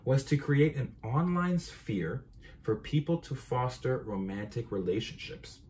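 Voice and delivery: measured essay read-aloud, phrase by phrase. Real, not acted. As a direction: read your own paper out deliberately, word for word. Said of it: "let me just read it word for word".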